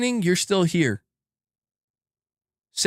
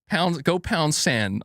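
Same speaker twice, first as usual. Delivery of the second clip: slow musing repeat; much slower than usual. Real, not acted. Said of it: "I still don't know what that means".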